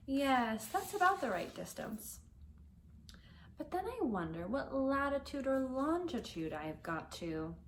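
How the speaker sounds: put-on young Alice, boasting brightly to herself; Alice's voice. Alice muses aloud.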